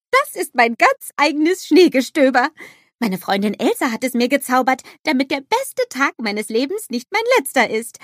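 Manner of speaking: high, loud eager snowman voice; bubbly cartoon snowman exclaiming; Olaf calling out. A narrator's reading.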